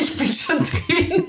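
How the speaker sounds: lachend und höher gesagt. Real, not acted. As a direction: mit einem Lachen dazwischenrufen. Player cuts in, laughing. (kichernd eingeworfen)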